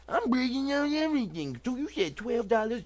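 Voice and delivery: high put-on voice of an eager viewer; hammed-up high fan voice; mock excited viewers. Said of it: "Y'all like".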